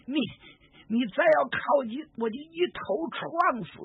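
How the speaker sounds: put-on high, desperate threat from a scared girl; frightened girl. Captive girl warns the stranger with the knife, high and desperate. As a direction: cry it out, cornered and ready to die. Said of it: "姑娘害怕了".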